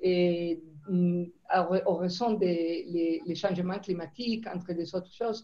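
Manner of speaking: non-native French accent; French spoken with a foreign accent. Real, not acted. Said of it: "mon français peut-être c'est un peu rougi". (accent étranger en français)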